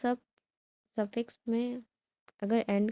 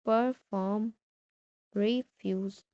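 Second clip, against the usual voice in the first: "Perform" and "refuse" weighted on the second syllable; stress on second syllable; much slower than usual. Shown as a demonstration. Teacher gives examples, "Perform", "refuse" stressed on second syllable. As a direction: lean on the end of "Perform", "refuse". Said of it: "the second syllable is stress".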